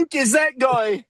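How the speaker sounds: a pub-shouting Irishman with a hammed-up accent; shouted Irish accent. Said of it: "talk like that".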